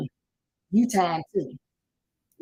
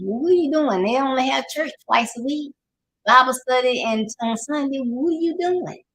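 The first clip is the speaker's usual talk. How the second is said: incredulous challenge; 5 semitones higher than usual. Real, not acted. Preacher asking churchgoing parents, incredulous and pointed. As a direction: pitch climbing higher, pressing the question.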